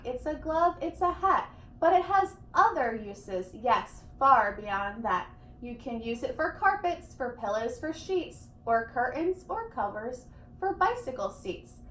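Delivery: a brisk, pushy pitch that mostly rises; a mild touch of the eager salesman; lightly voiced eager salesman. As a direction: sell the thneed hard and fast. Onceler defends his thneed.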